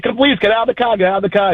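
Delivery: high, challenging call to come out; daring retort. Retold or imitated. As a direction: dare her out of the car. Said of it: "And I said".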